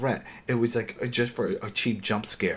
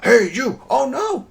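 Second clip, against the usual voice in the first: loud, higher startled yelling; shouting; 7 dB louder, slower than usual. Retold or imitated. Voice offscreen shouting before the gunshot, loud alarmed yell. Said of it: "you hear".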